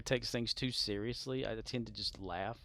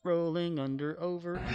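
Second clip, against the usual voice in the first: sing-song words into a laugh; playful giggling; 6 semitones higher, 7 dB louder than usual. Real, not acted. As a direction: tease the phrase, then crack up. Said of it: "playful sing-song".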